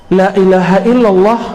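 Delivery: firm, projected recitation; hypocrite's recitation. Shown as a demonstration. Preacher cites the hypocrite's reading, firm recitation. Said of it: "Bacaan la ilaha illallah orang munafik".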